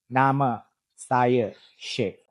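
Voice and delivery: "Nama saya Sheikh" slowly, word by word, level; slow, even-pitched "Nama saya Sheikh"; flat mid tone. Shown as a demonstration. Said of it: "use a flat or mid tone".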